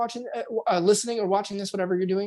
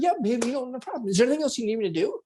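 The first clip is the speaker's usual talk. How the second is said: eager to please; 4 semitones higher, faster than usual. Retold or imitated. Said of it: "you're sincere".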